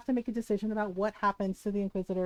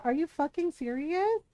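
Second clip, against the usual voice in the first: higher, rising disbelief on serious; incredulous; 5 semitones higher than usual. Real, not acted. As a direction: throw the question up in outrage. Ranting about a game's ending.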